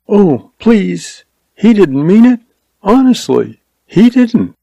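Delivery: put-on high, pleading girl's voice; voice shaking. A narrator's reading. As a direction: plead with him, voice trembling. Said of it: "Her voice shook".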